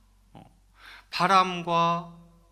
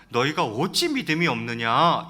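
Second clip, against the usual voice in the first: mildly acted scolding question; rebuke; 4 dB louder than usual. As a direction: chide the disciples for their doubt. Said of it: "이렇게 꾸짖으십니다". (제자들을 가볍게 꾸짖듯이)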